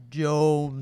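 deep, low Jones after clearing throat; playful deep voice. Pretend. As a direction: growl it low and loud. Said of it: "Wait, let me try".

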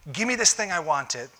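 put-on a petulant child grabbing; mock spoiled demand; demanding whine. Believers demanding from God.

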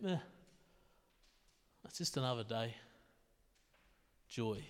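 low, soft and listless, like just another day; 気分が乗らない "eh". Acted. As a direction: drop it low and quiet, barely bothered. Acting out feeling a bit "eh.

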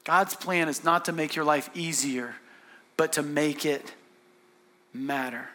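quiet, weighty restatement; hushed repeat. Real, not acted. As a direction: let it sink in, dropping away on the last word. Main point repeated softly for weight.

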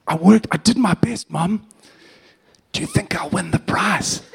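mock-earnest little boy begging for praise; hammed-up pleading child. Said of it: "ham it up".

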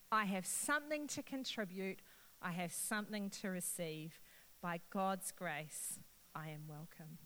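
a touch of prayerful solemnity; recited refrain. Acted. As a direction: lead the room through the creed line by line. Leads congregation in the refrain.

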